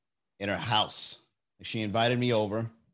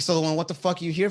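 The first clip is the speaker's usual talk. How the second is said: mock angry; 6 semitones higher, 3 dB louder, faster than usual. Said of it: "she showed me her crazy side".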